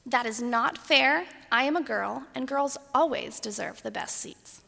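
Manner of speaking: put-on a touch of a whiny kid, slowed; lightly voiced whiny little girl; whiny high-pitched voice. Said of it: "in a whiny, high-pitched voice that I always had".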